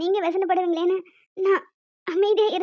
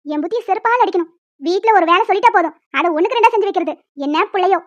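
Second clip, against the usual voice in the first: louder, contemptuous scolding; angry mother-in-law; 4 dB louder than usual. Acted. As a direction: spit out every insult at her. Mother-in-law insults daughter-in-law. (மருமகளை இகழ்ந்து கோபமாகத் திட்டும் மாமியார்)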